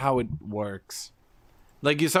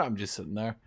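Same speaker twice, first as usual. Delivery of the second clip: ordinary talk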